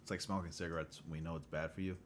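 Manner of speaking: talking while crunching ice; chewing ice. Real, not acted. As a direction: mouth full of ice chips. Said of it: "Excuse me for chewing ice".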